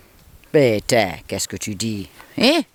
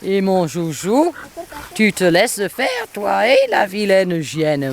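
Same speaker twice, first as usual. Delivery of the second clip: slow, slightly higher cooing to the dog; pet talk; 4 semitones higher than usual. Real, not acted. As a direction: coo tenderly at the pet.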